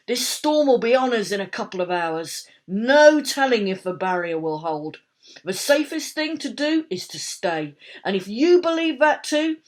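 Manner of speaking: loud, high crowd address; rally the street, loud; urgent leader calling to the crowd. A narrator's reading.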